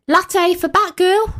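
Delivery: high, slow barista call; calling out order. Acted. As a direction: call a drink order across the café.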